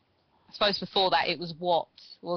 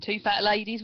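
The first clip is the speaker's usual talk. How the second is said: bingo caller; 3 semitones higher than usual. Pretend. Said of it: "Sounds like a bingo call".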